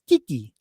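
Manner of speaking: "Kiki" said quickly in his own accent; own accent's Kiki. Shown as a demonstration. Showing his own way of saying it, "Kiki" in own accent. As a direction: say "Kiki" plainly, without an Australian accent. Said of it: "That's how I do it".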